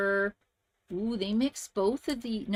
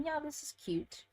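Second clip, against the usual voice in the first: mild inner thought; 7 semitones higher, 7 dB quieter than usual. Retold or imitated. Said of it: "'cause I'm thinking".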